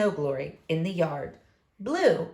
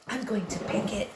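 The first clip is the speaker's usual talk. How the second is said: hushed and softer, conspiratorial; whispered; 6 dB quieter than usual. Acted. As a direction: confide it quietly to the dog. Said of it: "Henry whispered to Mudge".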